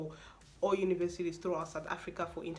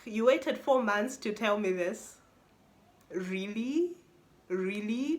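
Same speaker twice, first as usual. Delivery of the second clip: louder, slow indignant complaint; exasperated; 3 semitones higher, 4 dB louder, slower than usual. Retold or imitated. Complaining to the embassy about the wait, exasperated. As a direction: scold them for the delay. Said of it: "I'm like".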